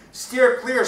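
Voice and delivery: high, forceful warning shout; Vasco shouting. Acted. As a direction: shout to clear the path. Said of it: "shouted Vasco".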